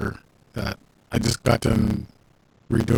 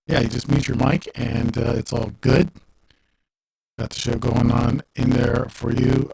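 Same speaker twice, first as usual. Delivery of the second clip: garbled, muffled sound; like talking underwater. Real, not acted. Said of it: "Sounds like you're underwater".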